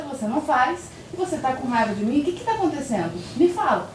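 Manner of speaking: a calm mother coaxing her crying daughter to talk; gentle, calm mother. Retold or imitated. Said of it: "Sentei e falei".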